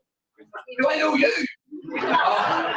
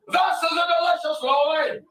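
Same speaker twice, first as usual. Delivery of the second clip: put-on a tough little Glasgow boy, like a loan shark; Glasgow wee lad; 5 semitones higher than usual. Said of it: "a wee lad from Glasgow".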